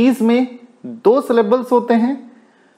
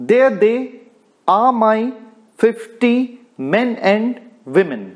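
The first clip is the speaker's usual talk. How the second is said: "There they / are my / fifty / men and / women" in two-beat chunks, pausing after each; trochaic scansion. Shown as a demonstration. Teacher reading Browning's line, "There they are my fifty men and women" chanted in trochees. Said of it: "trochaic meter is the pattern".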